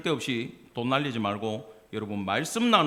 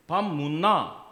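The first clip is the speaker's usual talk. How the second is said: Busan-accented tune on the question; Busan dialect; much slower than usual. Shown as a demonstration. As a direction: demonstrate the Busan pitch pattern. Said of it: "성조가 달라".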